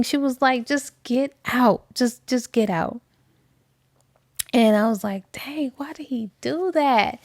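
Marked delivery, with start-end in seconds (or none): 0.7-3.0 cold dismissal. Retold or imitated. Celeste repeats her order. 5.3-7.2 breathless, higher whisper of disbelief; shocked whisper. Real, not acted. Teller reacting to Michael leaving Celeste, hushed whisper.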